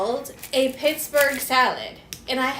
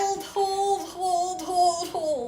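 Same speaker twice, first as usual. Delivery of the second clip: excited urging; 5 semitones higher, 6 dB louder than usual. Real, not acted. Urging a coil trick on.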